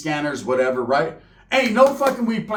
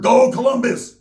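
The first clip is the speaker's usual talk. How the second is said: a hammed-up little cheer, higher; mock cheer; 6 semitones higher, 5 dB louder, slower than usual. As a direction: throw it out like a taunt. Mocking cheer in retold quote.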